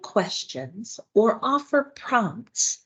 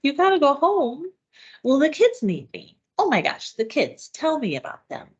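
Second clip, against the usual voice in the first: curious prompting; 6 semitones higher than usual. Shown as a demonstration. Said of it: "instead ask a question".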